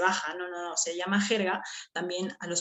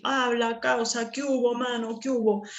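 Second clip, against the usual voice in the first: street slang greeting; 3 semitones higher than usual. Retold or imitated. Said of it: "Los venezolanos hablan así también".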